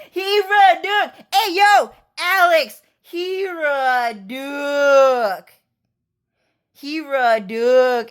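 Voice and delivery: high shrieking call to Alex; excited yelling. Retold or imitated. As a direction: yell it across to a friend, squealing. Retold calling out to Alex.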